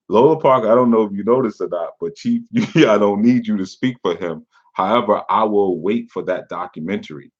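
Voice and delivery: barely holding back laughs as you read; reading through laughter. Retold or imitated. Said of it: "I'm laughing 'cause y'all don't".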